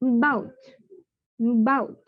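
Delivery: About said as 'bout', no opening vowel; About without the first sound; silent first A. Shown as a demonstration. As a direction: drop the A of About. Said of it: "সেটাও silent চলে যায়".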